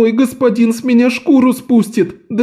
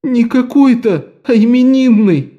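much higher, choking on pretend tears; babbling fake sobs; 11 semitones higher, 3 dB louder than usual. A narrator's reading. Lok fake-sobs to the fat man about the cake. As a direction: blubber it through sobs. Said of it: "пролепетал Лок, захлёбываясь притворными рыданиями".

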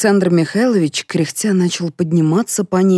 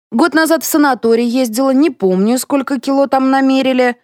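maid's voice, higher, with a sigh; 9 semitones higher, 4 dB louder than usual. A narrator's reading. Maid recalling her weight, high and sighing. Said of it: "вздохнула домработница".

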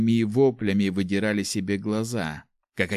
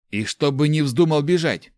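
louder, higher stern command; stern order; 7 semitones higher, 6 dB louder than usual. Acted. Nick ordering Chak to stay, stern and loud. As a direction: order him like a boss. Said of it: "строго приказал".

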